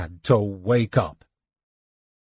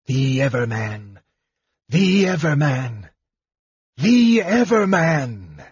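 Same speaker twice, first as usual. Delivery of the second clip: rising frantic cry; 3 semitones higher than usual. Acted. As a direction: grow more frantic each time.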